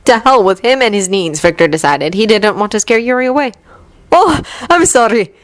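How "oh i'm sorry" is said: light laugh. A narrator's reading. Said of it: "he had laughed".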